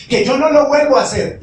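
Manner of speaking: hammed-up drunk swearing he'll stop; mock drunkard pleading. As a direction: borracho suplicando en broma. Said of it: "le dice".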